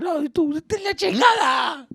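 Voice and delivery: high, loud shouted dismissal; angry cursing. Retold or imitated. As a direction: yell them away in a drunken fit. Drunk dad cursing off relatives.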